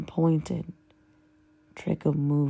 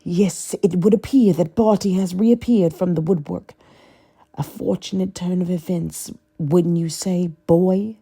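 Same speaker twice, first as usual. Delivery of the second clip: sneering; 5 dB louder than usual. Acted. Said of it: "Voldemort sneered".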